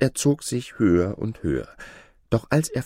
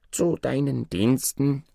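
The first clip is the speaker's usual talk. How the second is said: servile dwarf; 6 semitones higher than usual. Acted. Dwarf spirit greets his master.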